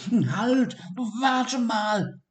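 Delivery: high call after a passing mouse; high little creature calling out; calling dormouse. A narrator's reading. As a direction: shout to stop the mouse. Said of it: "rief Siggi".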